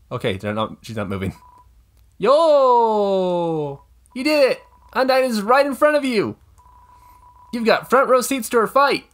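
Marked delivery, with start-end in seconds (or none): 2.2-9.1 put-on high, loud, eager kid; excited kid voice. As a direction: squeal like a fan kid. Voicing excited game character.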